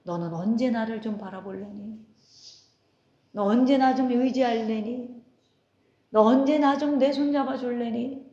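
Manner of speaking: lightly voiced tender Lord; tender pleading. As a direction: coax them lovingly to take his hand. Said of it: "주님이 곁에서 뭐라 그래요?".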